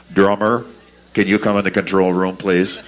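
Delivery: low, loud studio intercom announcement; talkback voice. Retold or imitated. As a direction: imitate a stern producer over the talkback. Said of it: "over the microphone go-, from the talkback".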